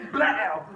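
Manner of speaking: loud "blaow" impact noise; imitated smashing blow. Retelling how he hacked at the ice, imitated blow. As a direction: hit it like a stick striking ice.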